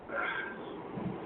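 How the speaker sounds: quiet breathy sigh. Real, not acted. At a loss over pack prices, soft sigh. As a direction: let out a soft, voiceless sigh.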